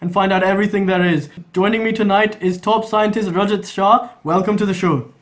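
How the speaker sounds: brisk anchorman delivery; TV debate host. Acted. Parody news debate host.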